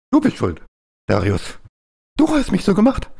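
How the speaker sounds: high, whiny mock accusation; mock whine. Streamer teasing Darius, high whiny mock complaint. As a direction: squeak it like a wronged child.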